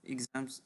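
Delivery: "Exams" with the final s sounded; plural pronunciation. Shown as a demonstration. Teacher telling student to focus on pronunciation, careful plural model. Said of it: "you focus on pronunciation".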